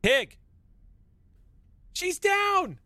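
high, loud shouted callouts; calling out. Acted. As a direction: shout down the corridor to the squad. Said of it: "And then Martha calls out".

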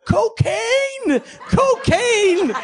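very high-pitched, drawn-out mock holler; high sustained imitation yell; imitated yelling. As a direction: imitate someone hollering one word at the top of their range. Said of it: "il se met à crier".

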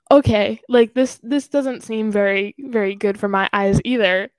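loud mock exasperation at the screen; half-shouted retold disbelief, squinting at it; exasperated. Talking to herself about the laptop, loud exasperated.

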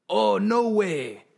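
loud, high, drawn-out reenacted outcry; hammed-up "oh no" wail; mock outcry. Acted alarm at a bug.

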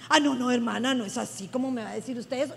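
low, softened mock protest; mildly affronted, imitated objection; offended church member. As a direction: play a member objecting under their breath.

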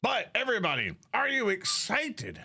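big slow hyped-up host call; booming kids show opener. Acted.

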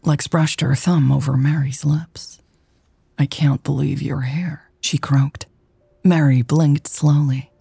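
intimate, measured romance narration; story narration. A narrator's reading.

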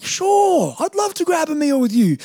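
high-pitched, eager retold yes; eager acceptance. Acted eager yes to lunch invitation.

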